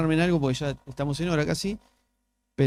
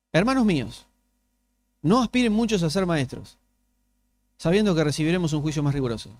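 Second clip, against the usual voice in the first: scripture reading; 3 dB louder than usual. Acted. Reads scripture aloud.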